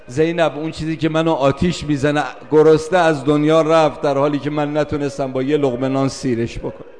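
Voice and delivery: voicing a bereaved sister's anguish; anguished lament. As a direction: lament with rising force. Grieving sister's lament, voiced.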